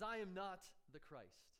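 "I am not the Christ" slowed, with weight on "not"; slow, deliberate retold denial, leaning on "not"; emphatic denial. John answers the leaders who question him, emphatic denial. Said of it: "he responds emphatically by denying".

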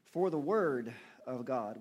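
WORD drawn out and loud, slowly; stress on WORD. Real, not acted. Preacher reading scripture to congregation, heavy stress on WORD. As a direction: lean long and hard on "word". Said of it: "we really stress the word here".

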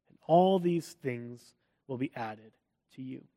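measured Bible reading, slowing at the end; scripture reading. Acted. Pastor reading scripture to church, measured reading. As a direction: read the verses with weight. Reads Matthew six aloud.

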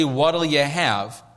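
slow, drawn-out "What'll you have?" like a diner waiter; slow server's ask. Shown as a demonstration. Pastor contrasting Jesus with a waiter, slow server's ask. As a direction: offer it slowly like a waiter taking orders. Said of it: "He doesn't say".

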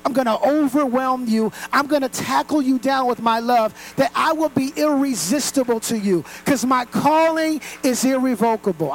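loud, driving sermon climax; preaching at full force. Acted. Preacher thunders God's promise at the congregation. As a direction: pour it out over the crowd.

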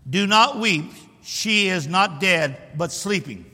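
firm, measured declaration; bold, emphatic pronouncement; boldness and authority. Acted. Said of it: "He said it with boldness and authority".

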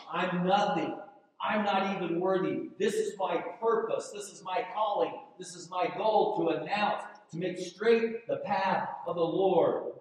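high, loud and fervent; crying out. Acted. Preacher voicing John the Baptist crying out to the crowds. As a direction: proclaim it with full passion. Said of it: "And he's crying out".

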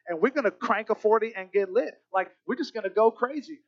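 hyped about getting wasted; cocky partier. Retold or imitated. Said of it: "I used to be like".

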